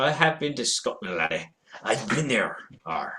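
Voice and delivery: put-on a weak stab at a Scottish accent that slips; failed Scottish accent. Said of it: "I've lost my Scottish accent".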